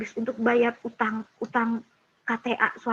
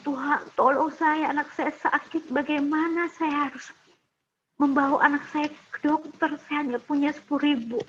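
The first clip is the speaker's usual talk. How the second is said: retold prayer; 3 semitones higher than usual. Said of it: "Saya akhirnya berani".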